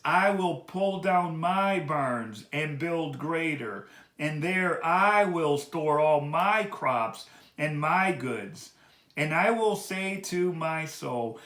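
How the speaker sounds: slow, deliberate, each word weighed; with emphasis. Shown as a demonstration. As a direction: read the boast slowly to expose his pride. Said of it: "read this with emphasis".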